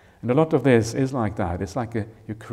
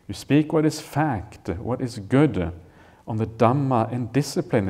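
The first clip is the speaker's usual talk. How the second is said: scripture reading; 3 dB louder than usual. Acted. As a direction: lift the quoted line out of the talk. Re-reads the sutta line.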